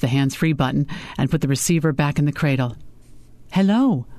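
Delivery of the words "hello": warm greeting, a little higher; warm man's voice. A narrator's reading. Client answers over the speakerphone, warm. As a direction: greet them warmly as an older client. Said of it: "A warm man's voice".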